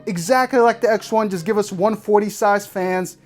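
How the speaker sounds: emotional rant. Real, not acted. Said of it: "getting emotional".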